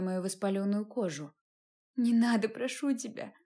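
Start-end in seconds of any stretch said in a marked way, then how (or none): 2.0-3.3 pleading. Acted. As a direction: beg him to stop, voice sinking. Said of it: "взмолилась я".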